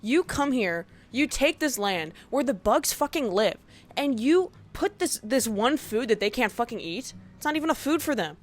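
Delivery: rising rant. Real, not acted. Ranting about lawns.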